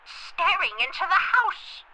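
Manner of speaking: put-on very old faint voice. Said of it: "someone putting on an old person's voice".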